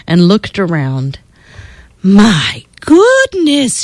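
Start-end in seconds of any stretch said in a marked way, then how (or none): 2.0-3.8 slow, drawn-out dismay; gentle old lady's tut; tutting disapproval. Acted. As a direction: shake your head as you say it. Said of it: "with a shake of her head".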